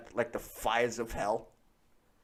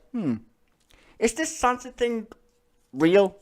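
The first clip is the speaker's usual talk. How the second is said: brain cell voice; 9 semitones higher, 6 dB louder than usual. Retold or imitated. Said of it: "was like".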